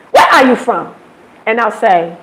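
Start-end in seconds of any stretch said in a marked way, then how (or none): 0.1-1.0 mock-aggressive demand, a touch punchy; imitated aggressive question. Uber driver questions an unfamiliar passenger, imitated as mildly aggressive. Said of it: "they say it so aggressive, like".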